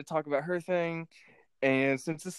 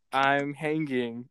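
slow drawn-out reading; much slower than usual. Shown as a demonstration. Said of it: "I'm hanging," but it's, like, spelled wrong".

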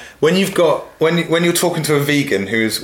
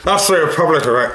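quick Belfast Northern Irish accent; faster than usual. Shown as a demonstration. Guest correcting his Irish accent toward Belfast. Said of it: "No, it's going up to Northern Ireland and Belfast".

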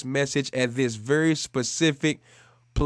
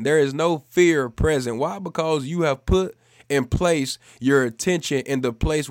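emphatic, louder preacher's proclamation; preaching; 4 dB louder than usual. Real, not acted. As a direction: drive each point home to the congregation. Preaching at full force.

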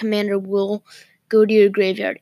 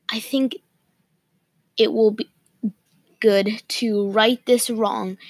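hiccuping mid-sentence; pausing for hiccups. Real, not acted. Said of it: "I actually have the hiccups".

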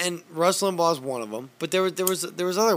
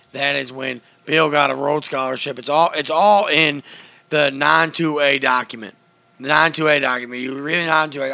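lightly voiced, louder ranting host; Alex Jones impression; 5 dB louder than usual. Doing Alex Jones for friends on a podcast, mild loud rant. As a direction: rant on with mock certainty. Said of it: "This is Alex Jones reporting to you".

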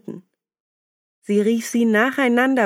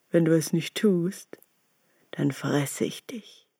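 quiet wolf threat; 2 semitones lower, 5 dB quieter than usual. Acted.

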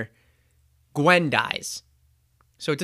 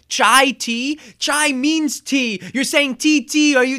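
higher, louder, building outrage at "chai tea"; incredulous rant; 8 semitones higher, 5 dB louder than usual. Retold or imitated. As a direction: correct him with rising disbelief. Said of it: "he goes on this whole rant".

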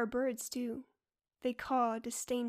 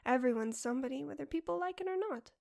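smiling. Acted. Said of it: "hear the smile in her voice".

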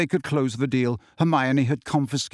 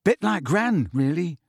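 subdued; 4 semitones higher than usual. Acted. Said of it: "in a subdued voice".

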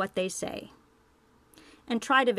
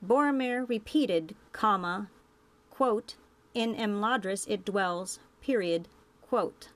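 dictating. Shown as a demonstration. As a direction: dictate the reversed order, naming "comma" and "quote". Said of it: "Let's turn that example around".

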